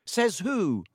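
high-pitched, loud retort; loud challenge. A narrator's reading. Dean challenging Lockhart in class, loud. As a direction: pipe up loudly to challenge. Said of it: "said Dean Thomas loudly".

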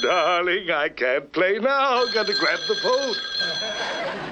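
purring latin lover. Acted. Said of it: "having a Latin lover around the house".

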